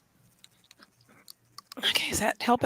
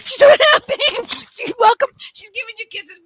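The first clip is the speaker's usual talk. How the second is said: delighted squeal; 8 semitones higher, 9 dB louder than usual. Real, not acted. Owner tells gift-giver of happy dog, delighted. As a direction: laugh into a high, loud gush.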